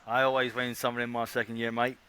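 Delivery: bad Australian accent; hammed-up Aussie accent. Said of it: "That was my Australian accent. It was pretty bad".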